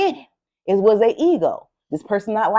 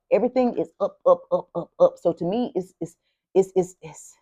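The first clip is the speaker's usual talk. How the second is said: excited stuttering; 3 semitones lower, 4 dB quieter than usual. Real, not acted. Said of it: "I'm stuttering".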